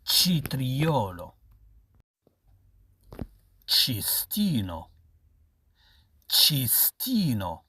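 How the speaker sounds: each word stretched out very slowly; drawn out for the class to copy; slow model reading. Shown as a demonstration. Teacher models Italian words slowly. (نطق بطيء للتلاميذ)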